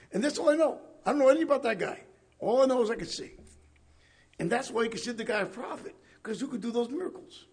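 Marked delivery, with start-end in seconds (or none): 0.1-3.3 higher and louder, stubbornly insisting; insistent healed man. Acted. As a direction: push back like a man who only knows he sees. Voicing the healed blind man.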